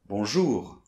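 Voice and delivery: "Bonjour" with the weight on "-jour", falling; stress at the end. Shown as a demonstration. Teacher modelling the final stress of bonjour. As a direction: lean on the last syllable of "Bonjour". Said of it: "Accent tonique à la fin".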